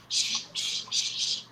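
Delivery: soft whispered shushing. Real, not acted. Hushing a crying toddler.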